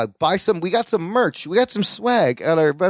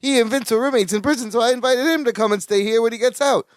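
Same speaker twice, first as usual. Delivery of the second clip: innocent Balki; 6 semitones higher, faster than usual. Retold or imitated. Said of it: "And then Balki's like".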